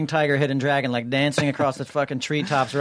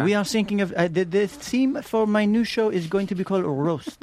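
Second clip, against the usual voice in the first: higher-pitched mock French singer voice; French accent; 5 semitones higher than usual. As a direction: camp French diva impression. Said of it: "continuing singer impression".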